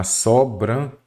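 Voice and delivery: "sobrancelha" com "so" oral, sem M; pronúncia correta de sobrancelha. Shown as a demonstration. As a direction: articule "sobrancelha" por partes, começando em "so-bran". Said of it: "o correto é o quê". ("sobrancelha" bem separado, sem som de "sombra")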